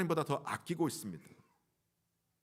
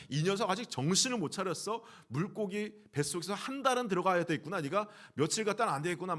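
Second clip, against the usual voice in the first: higher-pitched mock telling-off; acted angry rebuke; 5 semitones higher than usual. Preacher imagining God angry at stubborn Jonah, acted rebuke. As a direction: scold the wayward one in a raised pitch. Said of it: "화를 낼 것 같아요".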